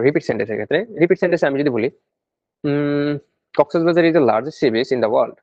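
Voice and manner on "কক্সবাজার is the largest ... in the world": attempted British accent; a light imitation of British English. Shown as a demonstration. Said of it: "এটা মনে করেন British অ্যাকসেন্টে বলছে".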